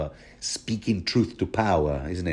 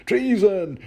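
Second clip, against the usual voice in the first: higher, stammering mock outrage; flustered guard; 3 semitones higher than usual. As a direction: splutter in disbelief. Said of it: "And Axel is like".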